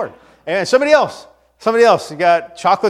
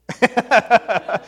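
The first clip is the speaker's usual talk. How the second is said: laughing; 6 semitones higher than usual. Real, not acted. Laughs at matching outfits.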